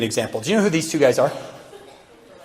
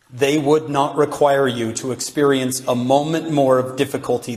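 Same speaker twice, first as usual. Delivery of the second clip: measured, deliberate quotation, slightly lower; slow reading; 3 semitones lower than usual. Real, not acted. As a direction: read it slowly so every word sinks in. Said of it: "I'm gonna read it slowly".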